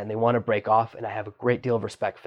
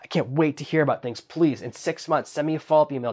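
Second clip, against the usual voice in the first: mock excited host; 3 semitones higher than usual. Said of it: "And you go".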